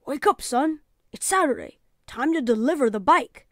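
a lightly voiced kind dad, easygoing; just a hint of a relaxed father offering help; fatherly voice. A narrator's reading. Father's voice in story.

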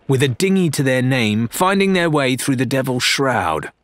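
scowling retort. Acted. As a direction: needle him with a sneer.

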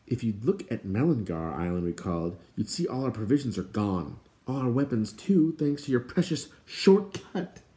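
building, lightly sarcastic blame; mildly reproachful. Acted. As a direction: scold with a touch of sarcasm. Companion blames him for lost provisions.

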